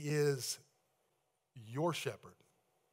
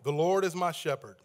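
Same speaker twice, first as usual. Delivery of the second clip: louder, lead the congregation; call-out line; 6 dB louder than usual. Shown as a demonstration. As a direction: call the verse out for them to repeat. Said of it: "You just say that back to me".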